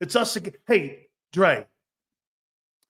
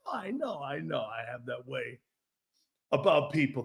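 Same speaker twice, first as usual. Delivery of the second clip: laughing; 7 semitones lower, 7 dB quieter than usual. Retold or imitated. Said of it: "And I was like".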